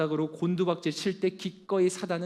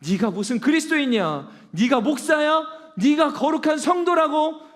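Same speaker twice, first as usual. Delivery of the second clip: loud, high jeering taunt of the accuser; mocking devil; 7 semitones higher, 6 dB louder than usual. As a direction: sneer at the listener as the devil. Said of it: "사단 마귀가 지금도 여러분들의 마음을 참소해요".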